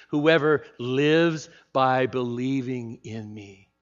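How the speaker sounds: slow, spaced words for the congregation to echo; slow call-and-response. Shown as a demonstration. Preacher leading the congregation to repeat together, slowly. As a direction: lead the room through it slowly. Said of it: "Say it with me".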